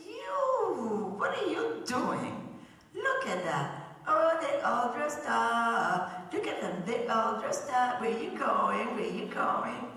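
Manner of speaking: put-on high, jeering kid voice teasing the churchgoers; mocking taunt. Mean kids jeer at children dressed for church, mocking. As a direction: sneer at them like a schoolyard bully.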